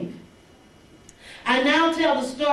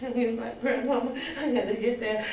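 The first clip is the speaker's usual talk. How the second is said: mock crying; 4 dB quieter than usual. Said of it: "walking and crying".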